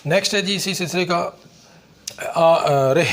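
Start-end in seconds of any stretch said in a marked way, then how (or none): 2.3-3.0 آ، آ، رہ، sounded out slowly, letter by letter; sounding out r-h. Shown as a demonstration. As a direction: break رہ into its sounds. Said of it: "صرف رہ ہوتی ہے".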